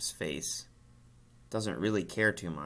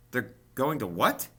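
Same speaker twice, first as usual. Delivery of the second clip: high, loud shocked pig squeal; shocked scream; 4 semitones higher, 6 dB louder than usual. A narrator's reading. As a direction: scream it out in disbelief. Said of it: "screamed Wilbur".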